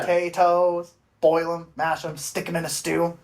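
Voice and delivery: movie-quote impression. Shown as a demonstration. Host gives the guesser a clue, movie-quote impression. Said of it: "I can say it like the movie".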